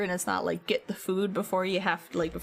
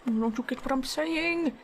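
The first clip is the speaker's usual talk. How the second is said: exasperated; 4 semitones higher than usual. Retold or imitated. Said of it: "exasperated yelling".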